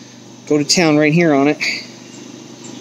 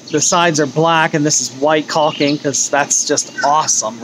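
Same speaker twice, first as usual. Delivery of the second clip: sarcastic. Real, not acted.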